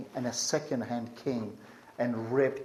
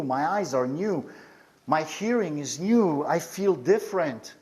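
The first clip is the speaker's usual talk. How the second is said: joyful praise; 4 semitones higher than usual. Retold or imitated. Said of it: "just saying".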